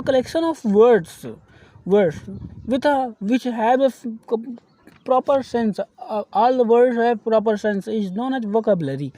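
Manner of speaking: slow, deliberate English for note-taking; slow dictation. Shown as a demonstration. Teacher dictating the definition of vocabulary, slow. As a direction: dictate it word by word. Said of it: "teacher dictates definition".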